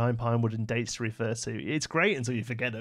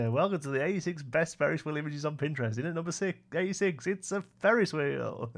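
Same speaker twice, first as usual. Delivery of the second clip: clickbait video narrator; 4 semitones higher than usual. Pretend. Mock Pinterest countdown list.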